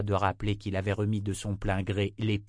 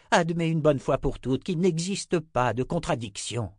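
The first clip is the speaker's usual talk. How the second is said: mocking, scornful raised voice; taunting villain; 4 semitones higher than usual. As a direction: sneer down at the seeker. Voiced antagonist taunting Richard.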